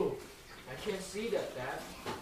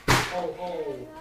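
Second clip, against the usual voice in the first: loud drawn-out owl hoots; owl hooting; 7 dB louder than usual. Pretend. Reader reviews owl sound with children, loud hooting. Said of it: "He can sound like a oh".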